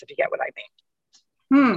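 unvoiced breathy whisper. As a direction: lean in and whisper it. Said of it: "with a very whispery voice".

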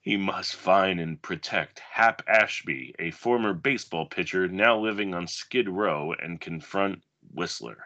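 dramatic blurb reading, measured pace; movie blurb read. Acted. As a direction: read it like a video box cover. Reads a movie back cover.

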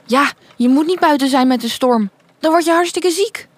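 a lightly voiced, concerned interruption; lightly voiced worried Lou. Lou warns about playing in the storm, lightly voiced concern.

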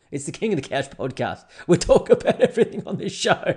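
silly high-pitched podcast plug; hammed-up squeaky show slogan; mock show plug. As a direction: shoot up into a high, loud, goofy voice.

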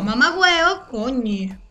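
reclamo enfadado algo más firme; molesta de broma. Shown as a demonstration. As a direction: dilo como un reproche contenido. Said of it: "si yo estoy realmente molesta". (insulto con enfado fingido)

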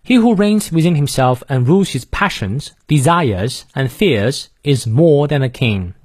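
British reading, dropping the R after vowels; British accent. Shown as a demonstration. Teacher demonstrating for learners, non-rhotic British accent. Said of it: "英式发音，元音后的而不念".

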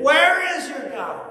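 high, loud jeering taunt; mocking taunt. Enemy jeering at the psalmist, loud high mockery. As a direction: throw the question like a sneer. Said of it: "someone poking and prodding him, saying".

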